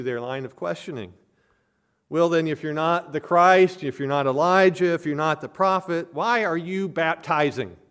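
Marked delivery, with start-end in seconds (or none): 2.1-7.8 raised, higher-pitched challenging questions; louder, pushing with each if; pressing questioners. Retold or imitated. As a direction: officials challenging John's right to baptize. Delegation pressing John again.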